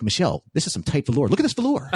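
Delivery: fast, then high laughing admiration; impressed actor. Retold or imitated. Actor showing his wife the velour costume, laughing admiration. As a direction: rave about the fabric, half laughing.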